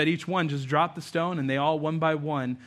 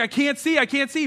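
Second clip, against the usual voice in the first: straining Zacchaeus; 8 semitones higher, 3 dB louder than usual. Acted. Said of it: "he's like".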